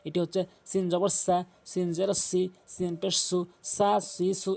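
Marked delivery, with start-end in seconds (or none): 3.8-4.5 "সা সি সু" with a clear hissing s; distinct sin sound. Shown as a demonstration. Teacher contrasting two letters, "সা সি সু" with clear s. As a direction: keep the s in "সা সি সু" sharp, never th. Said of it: "এটির ভিতরে আর এটির ভিতরে পার্থক্য".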